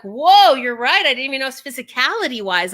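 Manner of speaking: loud startled whoa; surprised. Retold or imitated. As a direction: realize it with a jolt. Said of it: "you're like".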